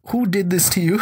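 high-pitched, pitying squeak; mock anguish. Teller to the frail old man at the door, high mock anguish. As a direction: plead it high, on the edge of laughter.

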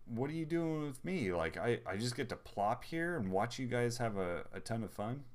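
mock-complain on the baby's behalf; indignant baby. Voicing left-out baby's protest.

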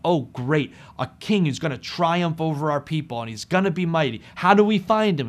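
hammed-up shepherds, eager to find the king; excited shepherds. Shepherds' excited retold reaction.

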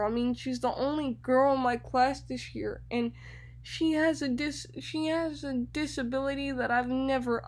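mild mock panic, fast and fretful; a lightly voiced frantic teacher. The teacher panicking over her new student, mildly frantic. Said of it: "was so frantic".

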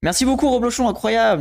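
excited donation thanks. Real, not acted. Streamer thanks a sub gift.

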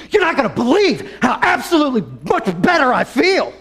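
man high on powder tells his family, laughing; laughing and giddy. Retold or imitated. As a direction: bubble over with wild joy. High guy reports to family.

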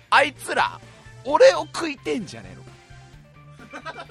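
high, slow mock panic; half-laughing fake alarm; mock fear. Ants eating me, mock fear. (怯えたふり)

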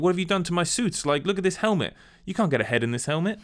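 high, quick mock outrage; hammed-up indignant boss; exasperated complaint. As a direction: complain in disbelief, pitched well up. Retold boss complaining about ruined suits.

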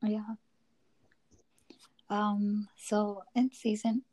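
a real voice fading into a whisper; whispery voice going hoarse; losing voice. Real, not acted. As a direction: voice giving out to a whisper. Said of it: "losing my voice".

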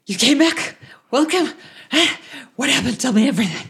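high, loud, eager welcome; breathless excited shopkeeper; excited NPC. Acted. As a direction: greet them bursting with curiosity. GM voices excited NPC Toriel.

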